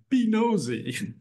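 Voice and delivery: high, drawn-out playful retort; playful mock slogan. Spoofing the commercial's line, high-pitched and drawn out. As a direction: pitch it way up and stretch it out. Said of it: "And I'm like".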